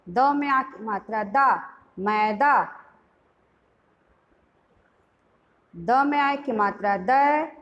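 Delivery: teacher's phonics chant; spelling drill. Shown as a demonstration. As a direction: build each word aloud for the class.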